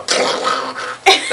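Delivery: mouth-made drop noise; unvoiced thud effect; imitated crash. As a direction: imitate a guitar hitting the ground. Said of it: "drop it to the ground with a".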